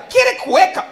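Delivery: high, loud hawker voice in Spanish; Paraguayan street hawker. Retold or imitated. Paraguayan vendor offering a pendrive to a tourist, loud and high. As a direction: call out like a street seller.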